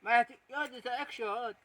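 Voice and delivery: soft hushed warning; barely voiced, keep him quiet.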